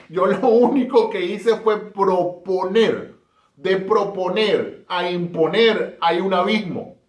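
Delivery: citazione lenta e scandita, tono più alto; Libertador quotato. Retold or imitated.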